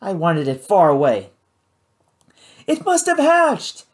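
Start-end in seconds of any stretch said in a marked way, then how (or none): 2.7-3.8 higher, slower voice calling up from below; Kate calling up. A narrator's reading. Kate calls up to Matt, slow raised call. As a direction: call it up, worried and careful. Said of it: "Kate called up".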